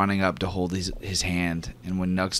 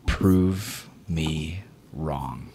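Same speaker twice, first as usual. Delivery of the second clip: grudging challenge; 3 semitones lower, much slower than usual. Acted. GM voices Dell conceding.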